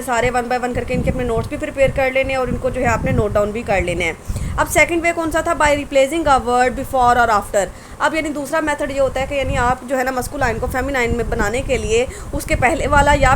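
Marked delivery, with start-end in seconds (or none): 5.6-7.7 very slow, each word set apart; dictating slowly. Shown as a demonstration. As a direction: read the heading out slowly for dictation. Teacher dictates the rule heading. (Notes के लिए बहुत धीरे बोलना)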